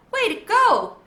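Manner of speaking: high, loud cheer. A narrator's reading. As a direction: call it out proudly. Cheering skateboard trick.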